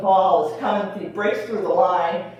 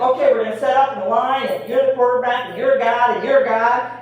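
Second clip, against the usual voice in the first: loud, fast Boston coach barking orders, guard said as God; louder and faster, a Boston football coach calling positions; 6 semitones higher, 6 dB louder than usual. Retold or imitated. Coach setting up kids in the line, in a Boston accent. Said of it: "the coach is like".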